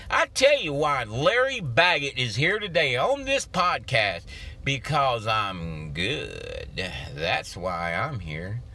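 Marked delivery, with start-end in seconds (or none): 4.6-8.6 mock-cocky boast. Joking boast, then "No, seriously.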